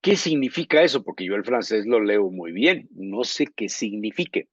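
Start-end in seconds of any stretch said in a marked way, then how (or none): 0.0-1.0 asking the driver. Retold or imitated. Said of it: "y le decía yo".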